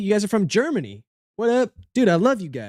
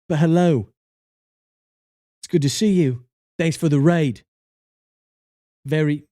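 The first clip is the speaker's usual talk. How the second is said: put-on British accent; 2 semitones lower than usual. Streamer thanks the raider in a mock British accent. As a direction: play a cheery Brit thanking the raid. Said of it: "we're doing the British bit".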